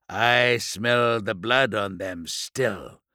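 slow, contemptuous sneer. Acted. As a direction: sneer the words slowly. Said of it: "Narek sneered".

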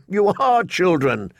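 slow, scornful jab; mock them with contempt; derisive. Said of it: "he said derisively".

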